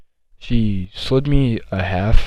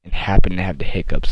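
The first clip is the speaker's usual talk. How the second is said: a touch slower, patient explaining; talking slow to her; 5 dB louder than usual. Retold or imitated. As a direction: spell it out gently for someone who's not following. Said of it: "he was talking slow".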